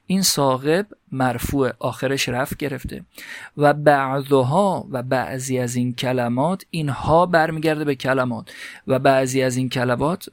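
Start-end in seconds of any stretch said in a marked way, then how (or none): 3.6-4.9 teacher slowly voicing the Arabic example for students; slow recitation. Shown as a demonstration. Teacher to students, reading the Arabic text slowly. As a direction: read مثل ثاقبون slowly, each syllable drawn out.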